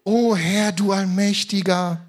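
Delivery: solemn put-on pulpit voice, slowed on "Allmächtiger"; mock sacral prayer voice. Shown as a demonstration. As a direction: parody a pompous churchy prayer, drawn out. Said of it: "verstelle meine Stimme nicht im Gebet und werde ganz sakral".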